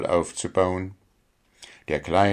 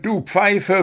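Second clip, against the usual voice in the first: "du Pfeife" squeaked high as a timid plea; stammered plea; 12 semitones higher, 3 dB louder than usual. A narrator's reading. Dwarf meekly repeating "du Pfeife" to the referee. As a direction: soften "du Pfeife" into a nervous plea.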